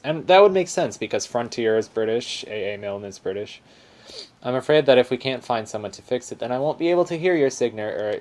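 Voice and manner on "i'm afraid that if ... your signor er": Aussie bear voice. Acted. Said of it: "This is an Aussie bear".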